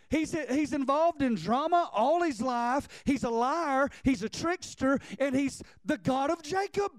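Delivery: preaching at full force. Acted. Preacher to his congregation about the God of Jacob, building preaching. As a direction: preach it out, climbing toward the peak.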